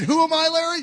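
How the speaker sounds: tearful question. Retold or imitated. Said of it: "now I got tears in my eyes".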